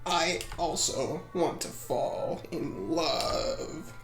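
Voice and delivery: slow, soft confession; very quiet. Acted. Lady alone confides in her heart, very quiet. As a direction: murmur it privately, drawn out. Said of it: "very quiet and honest conversation".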